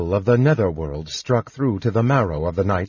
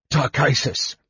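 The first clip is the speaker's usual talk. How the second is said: raised, higher invocation; shout; 4 semitones higher than usual. A narrator's reading. Knight calls on his goddess in battle, shout. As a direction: call out to a deity, restrained shout. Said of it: "he shouted".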